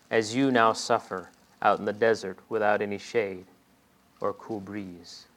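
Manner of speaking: soft, gentle rebuke as God; God softly confronting his prophet; quiet voice of God. Acted. Preacher voicing God to Jonah.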